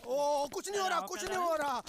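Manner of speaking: high, hurried-sounding protest; flustered cover-up. Acted. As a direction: insist nervously that all is fine. Caught manager covers up to madam.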